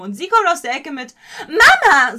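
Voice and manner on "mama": MAMA shot up high and very loud; sudden piercing high MAMA; really high. Retold or imitated. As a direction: imitate a shrill singer blurting MAMA. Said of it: "so richtig hoch".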